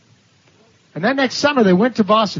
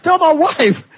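jumps much higher, an aghast cry; shocked exclamation; 10 semitones higher, 3 dB louder, slower than usual. Retold or imitated. The converted man balks at being told to confess to his wife, a shocked cry. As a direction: recoil at the idea in disbelief.

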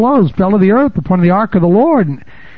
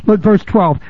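ordinary talk, nothing marked

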